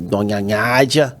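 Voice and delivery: slow "Donha Nádia" with NH sound; lightly put-on janitor voice. Pranking his mother in the dark kitchen as the janitor. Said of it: "Aí eu fiz assim".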